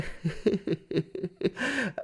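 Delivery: high, soft stuttering chuckle; put-on chuckle. Coach on the phone to a player, soft mock chuckle. Laugh inside the coach impression.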